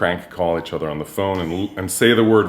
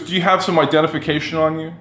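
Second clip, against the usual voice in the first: higher, mock-official question; imitating friend Jeffrey; 9 semitones higher than usual. Jeffrey teasing his moping friend at the table, mock-officious. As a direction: quiz him like a cop, lightly voiced. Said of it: "he goes".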